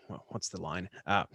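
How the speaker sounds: ordinary talk, nothing marked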